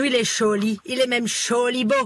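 French with a hard Alsatian accent; mock Alsatian accent. Shown as a demonstration. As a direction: soften nothing, say j as ch like an Alsatian. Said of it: "L'accent alsacien, comme on dit chez nous".

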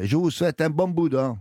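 lightly imitated Marseille accent. Host teaching listeners a Provençal New Year wish, Marseille accent. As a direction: have a go at a Marseillais lilt. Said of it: "votre accent marseillais".

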